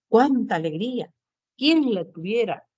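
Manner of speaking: "Cuánta alegría" and "Quién la tuviera" as mild exclamations; exclamatory tone. Shown as a demonstration. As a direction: exclaim lightly, letting each phrase fall. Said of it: "el signo de exclamación". (exclamación leve, con final descendente)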